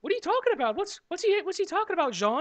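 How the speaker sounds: mock panicked Frenchman. Liam Neeson character questions French friend.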